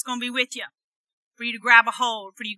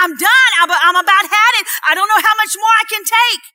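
weary believer; 6 semitones higher, 8 dB louder than usual. Retold or imitated.

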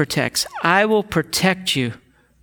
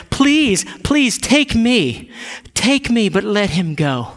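earnest plea, higher pitched, slowing; imploring, raised voice; pleading; 3 semitones higher, slower than usual. Acted. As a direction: beg to be taken instead. Judah pleads for his brother.

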